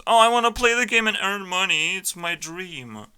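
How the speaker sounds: high-pitched mock dreamy player; put-on high, whiny wishful voice; mocking wannabe. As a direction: mimic a naive gamer in a high voice, slowing on the last words. Mocks a play-to-earn player.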